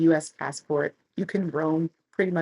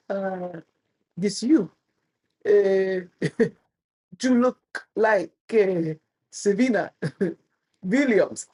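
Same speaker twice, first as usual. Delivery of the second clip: chuckling through an officer's words; laughing officer; 2 semitones higher, 3 dB louder, slower than usual. Retold or imitated. Border officer teasing her about a tennis star, laughing mock quote. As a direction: quote the officer while giggling. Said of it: "their shoulders just chuckle".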